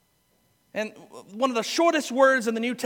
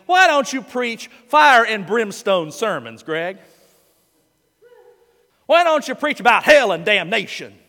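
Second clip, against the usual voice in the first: demanding congregants; 5 dB louder than usual. Retold or imitated. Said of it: "asked me".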